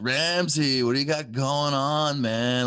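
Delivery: drawled, slow, high California surfer-dude voice. Quoting a California lender who greets the speaker by name: imitating a surfer-sounding lender. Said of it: "he sounds like a surfer".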